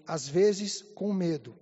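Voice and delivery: low, drawn-out quoted confession; imitating mother's admission. Ill mother confesses to her son, slow low imitated admission. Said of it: "ela falou assim".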